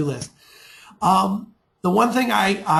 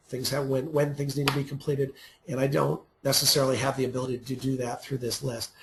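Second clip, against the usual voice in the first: short of breath; 4 semitones lower, 6 dB quieter than usual. Real, not acted. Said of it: "a little short of breath there".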